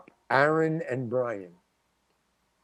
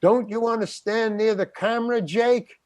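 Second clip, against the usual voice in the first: higher-pitched call across the set; retold yell; 6 semitones higher than usual. Cinematographer calling to Jake by the camera, mild mock yell. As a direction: imitate a cameraman calling out a pointed question. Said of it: "the cinematographer, yells".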